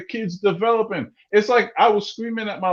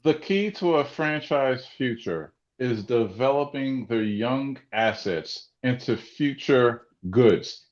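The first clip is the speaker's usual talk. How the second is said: softer, lower, calmed down; calmer quiet voice; 6 semitones lower, 5 dB quieter than usual. Real, not acted. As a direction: bring it right down after yelling. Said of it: "I'm gonna stop yelling".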